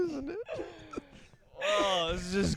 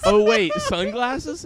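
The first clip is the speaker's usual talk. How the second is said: drawn out, higher, mock surprise; slow mock realization; 5 semitones higher, 3 dB louder, much slower than usual. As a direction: stretch it out like a dawning realization. Mock replay of the reaction.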